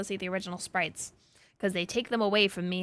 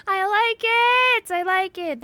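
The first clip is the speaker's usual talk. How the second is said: laughing; 11 semitones higher, 10 dB louder, much slower than usual. Real, not acted. Laughing, gushing about favorite.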